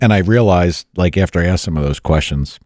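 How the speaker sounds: talking through hiccups; hiccuping between words. Real, not acted. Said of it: "excuse me, got the hiccups".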